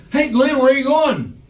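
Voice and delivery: bully heckling the latecomer; mocking call-out. JBL calling out Glenn.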